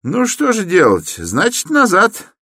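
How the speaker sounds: high, peevish resignation; Koch giving up. Acted. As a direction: shrug it off, fed up. Koch gives up.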